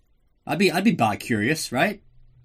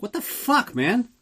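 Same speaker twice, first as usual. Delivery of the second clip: mock hurt outrage; 11 semitones higher, slower than usual. Grant punched in the gut.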